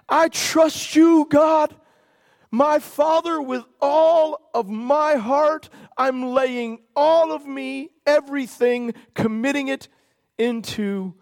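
a voiced cry of trust that fades away; voicing Jesus's cry. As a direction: cry out the trust, then let it sink to a hush.

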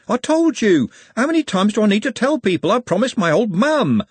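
high, loud exasperated protest; Trev. A narrator's reading. Trev answers Glenda about his promise, high exasperation. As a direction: insist at the top of the voice range.

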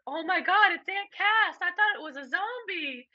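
put-on high, shrieking kid voice; high mock shriek; imitating cousin. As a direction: squeal like a startled kid. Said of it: "Monica goes".

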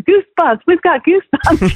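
excited. Retold or imitated. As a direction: imitate thrilled new believers. New Christians excited about goosebumps.

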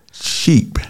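sly high whisper on one word; whispered punchline. Acted. Pastor whispering the joke word to the call. Joking aside mid-sentence.

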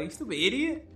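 mock angry yelling. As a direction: ham up the furious boyfriend. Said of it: "he's just yelling at her".

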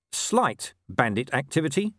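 "Slight bandit activity" echoed with rising pitch; questioning echo. Acted. Vimes queries Inigo's understatement.

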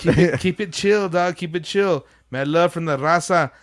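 lightly imitated Spanish-inflected homeboy talk; weird Spanish speaking. Starstruck fan signing off to Jim, lightly Spanish-inflected. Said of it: "weird Spanish speaking".

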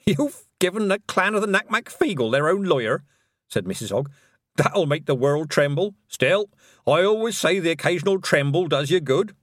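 put-on high, merry old witch; chuckling old woman; jolly old witch. Nanny Ogg voice.

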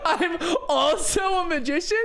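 high laughing disbelief; cracking up mid-question. Real, not acted. Laughing at the idea.

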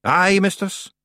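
proud, high Scots Feegle. A narrator's reading. Rob admits it to Miss Treason, proud. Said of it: "said Rob proudly".

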